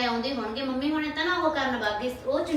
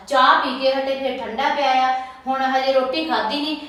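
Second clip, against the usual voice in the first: louder, exasperated rant; fed-up outburst; 6 dB louder than usual. Acted. Wife venting to husband about greedy guests, loud and fed up. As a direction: vent it hard at the relatives.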